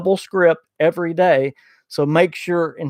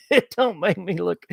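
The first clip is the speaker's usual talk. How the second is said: talking through a chuckle; self-mocking laugh breaking into the words; 4 dB quieter than usual. Real, not acted. Host jokes about his own attempted accents, laughing.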